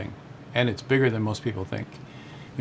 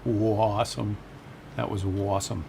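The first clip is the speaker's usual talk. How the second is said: drawn-out, half-successful Bostonian vowels; attempted Boston accent; slower than usual. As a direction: try to say it like a Bostonian. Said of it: "trying to say it like a Bostoner".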